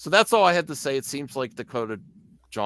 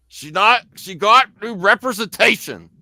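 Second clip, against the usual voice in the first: put-on angry bearded man voice, higher and louder; 8 semitones higher, 8 dB louder than usual. Saying a line again after being asked to do it angry: Gary from Nerdrotic impression. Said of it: "say it like you're, you have a big, long beard and are angry".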